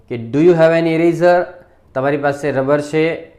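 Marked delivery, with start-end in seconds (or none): 0.1-1.4 reading speaker A's question slowly and clearly; slow dialogue line. Shown as a demonstration. Teacher reads the dialogue question slowly to the class. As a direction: spell out each word of the question. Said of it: "ચાલો dialog જો".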